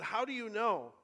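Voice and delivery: high, loud, startled question; incredulous challenge. A narrator's reading. Shasta asks the voice how it knows, incredulous. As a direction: demand it like a baffled boy.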